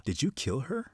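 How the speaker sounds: conspiratorial whisper. Acted. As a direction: ask it under your breath, in confidence. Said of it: "Zelda whispers to Yelena".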